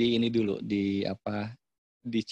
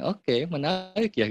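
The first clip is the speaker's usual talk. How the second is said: slow, higher-pitched show of interest; 5 semitones higher, slower than usual. Shown as a demonstration. Counsellor hears a child's confession, interested and accepting. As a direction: draw it out, reflecting without judgement. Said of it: "Saya malah bilang".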